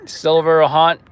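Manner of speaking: slow machine announcement; filtered scanner voice. Pretend. Scanner checking for coronavirus, slow filtered voice. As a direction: announce each step slowly, like a scanner.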